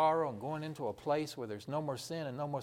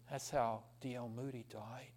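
whispered, much softer; hushed whisper; 4 semitones lower, 9 dB quieter than usual. Acted. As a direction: let it fall to a whisper. Dramatic hushed story close.

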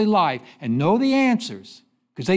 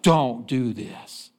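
slow stern rebuke; 7 semitones lower, much slower than usual. Retold or imitated. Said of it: "It's like".

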